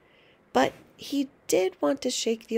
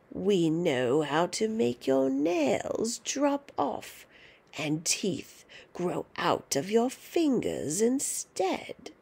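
put-on slow, half-whispered old witch; creepy witch whisper; slower than usual. Grandma menacing George, slow creepy whisper. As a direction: hiss the threat slowly.

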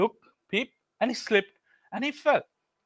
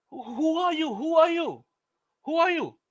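anxious, pitched-up question; 8 semitones higher than usual. Acted. Jack frightened questioning.

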